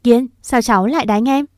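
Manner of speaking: a mild stern shout at the nephew; understated scolding call. Acted. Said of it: "Hạnh chạy nhanh vào quát to".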